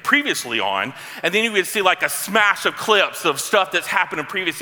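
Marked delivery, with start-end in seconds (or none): 0.0-0.9 TV voiceover. Retold or imitated. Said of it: "a voiceover that would say".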